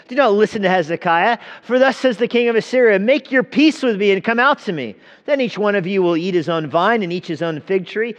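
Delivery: high, loud herald's call across the wall; loud proclamation. A narrator's reading. Assyrian envoy shouts up to the people on the wall, loud and high. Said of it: "called out in a loud voice".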